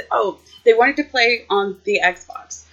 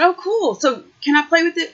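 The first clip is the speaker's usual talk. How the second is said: mock excitement; 8 semitones higher than usual. Teasing nephew about toy.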